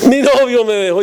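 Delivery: lightly voiced little girl, mock whimper; mock crying girl. Ten-year-old telling the pastor her life is worthless, mock sobbing. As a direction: play a weepy ten-year-old, half-hearted. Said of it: "una niñita que estaba llorando".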